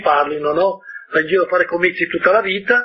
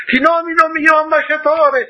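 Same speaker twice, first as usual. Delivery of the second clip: high, loud royal shout; king calling after him; 12 semitones higher, 4 dB louder than usual. A narrator's reading. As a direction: shout the appointment after the departing prince. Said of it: "si affrettò a gridargli appresso il re".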